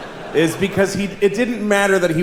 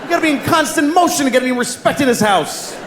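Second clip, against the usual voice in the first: high startled shouting fish; panicked fish shout; 9 semitones higher than usual. Pretend. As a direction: yell like a fish jolted out of a nap. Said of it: "it looks like he goes".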